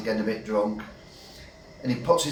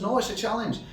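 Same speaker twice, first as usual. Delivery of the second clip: barman voice; 9 semitones higher, 6 dB quieter than usual. Retold or imitated. Barman voiced in pub joke.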